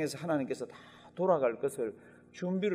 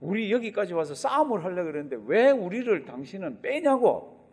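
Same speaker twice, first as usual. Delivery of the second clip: indignant protest; 3 semitones higher, 5 dB louder than usual. Retold or imitated. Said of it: "그런데도 뭐라 그럽니까?".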